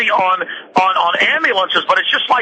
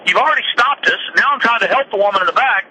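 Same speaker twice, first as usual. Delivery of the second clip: pretty nice; 4 semitones higher than usual. Retold or imitated. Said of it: "he's being pretty nice".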